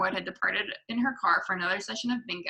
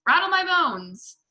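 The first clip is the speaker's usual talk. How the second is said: high, slow ghostly wail; spooky parrot voice; 9 semitones higher, 5 dB louder, slower than usual. A narrator's reading. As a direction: draw it out like a parrot playing ghost. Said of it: "imitation of a spooky voice".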